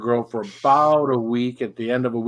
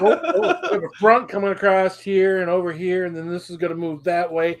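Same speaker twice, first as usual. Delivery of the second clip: higher-pitched TV weather report; mock weather forecaster; 4 semitones higher than usual. Playing along with giving the weather report, mock forecaster. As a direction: present a pretend forecast, amused. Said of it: "like, the weather report".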